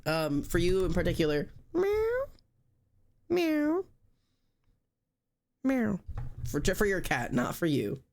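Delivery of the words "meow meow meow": high cat meow, falling each time. Pretend. Streamer greets viewer's cat with a high meow. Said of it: "Hi, kitty cat".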